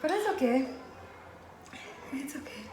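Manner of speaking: words running together a little; slightly slurred speech, tongue numb from spice; slurring words. Real, not acted. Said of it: "I'm slurring my words".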